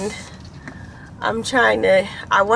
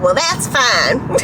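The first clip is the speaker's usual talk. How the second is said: bad Southern accent; slower than usual. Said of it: "that's such a bad accent".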